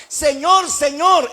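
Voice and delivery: high, loud acted appeal; hypocritical pleading. Hypocrites appeal to Jesus on that day, high acted plea. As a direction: cry out the title with false devotion. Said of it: "hasta dónde llegará la hipocresía".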